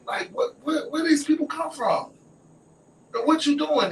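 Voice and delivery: high-pitched bewildered demand; incredulous questioning. Retold or imitated. Friend asks where these people come from, incredulous. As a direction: question her, voice jumping high.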